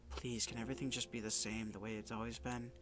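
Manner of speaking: put-on quiet, begging young girl; soft pleading voice. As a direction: plead gently, almost whispering. Sayori lines read in character.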